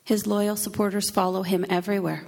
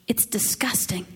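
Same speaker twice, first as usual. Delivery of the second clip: whispered disgust; 3 semitones higher than usual. A narrator's reading. Recoiling from the flogging.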